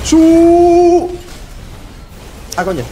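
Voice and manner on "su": sudden sharp yell; shout. Real, not acted. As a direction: yelp out in the fight. Grito en pleno combate. (grito repentino)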